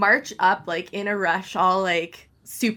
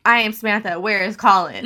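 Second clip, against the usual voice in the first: laughing self-mockery; 6 dB louder than usual. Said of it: "and was like".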